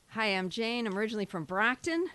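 stage opener. Retold or imitated. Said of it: "I always open with".

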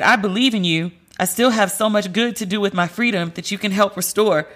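fighting back real tears line by line; tearful reading. Real, not acted. Reading the detainee's letter aloud, tearfully. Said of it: "I can't even read the letter without crying".

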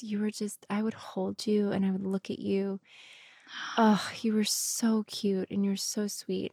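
soft, breathy cooing in retelling; imitated tender adoration. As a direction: gently coo it as a retold quote. Child voiced adoring a baby.

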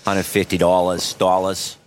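dropped-R Boston key words; Boston accent. Shown as a demonstration. Comic showing key words that get him in, Boston accent. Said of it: "There's, like, the key words".

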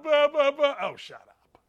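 high-pitched imitation of blubbering; mock bawling. Host mimicking a player crying in the stands, mock bawling. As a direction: blubber in mockery, pitched well up.

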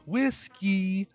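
Whiskey called out long and high; calling the dog. Shown as a demonstration. Showing how to call a dog, drawn-out call. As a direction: call Whiskey across the yard. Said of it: "you have to be able to go".

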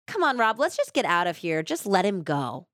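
retold calm, quick and even; calm, normal voice. Wife telling her fighting husband to leave, calmly. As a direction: settle it down as if nothing is wrong. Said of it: "said calmly in a normal voice".

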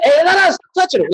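high, loud and fast warning; frantic stop. Retold or imitated. Relative stopping the auntie grabbing the body, loud and rushed. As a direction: rush it out, high and urgent, to stop her.

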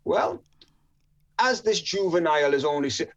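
imitated Jamaican probation officer; awful Jamaican accent. Probation officer addresses the magistrate, in a rough Jamaican accent. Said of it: "forgive my awful accent, by the way".

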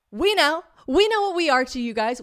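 high, loud insistence; emphatic admission. Real, not acted. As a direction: hammer it home to the doubters. Emphatic admission of being basic tourists.

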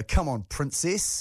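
slow, patronising put-down; condescending tone. Shown as a demonstration. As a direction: say it like you're talking down. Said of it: "You can't ban tone".

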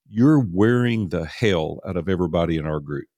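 plainly stated reproach; serious rebuke. Retold or imitated. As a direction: deliver it matter-of-factly, no joking. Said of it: "I could tell then he was serious".

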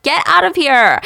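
high, loud mock scream; imitating a woman screaming in outrage; screaming at someone. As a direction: shriek at an intruder to leave. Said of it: "Halam starts screaming at him".

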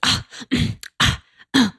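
mock flustered "ah" noises; imitated flustered gasps. Imitating a lost woman outside the gate, flustered. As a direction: stammer out little startled ahs, imitating her. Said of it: "she looked very flustered".

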